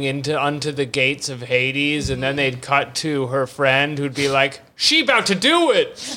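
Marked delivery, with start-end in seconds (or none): 4.7-6.2 high, gleeful sideline call; hammed-up excited commentary; mock excited onlooker. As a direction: hype her up, half laughing. Acts friend cheering on Persephone.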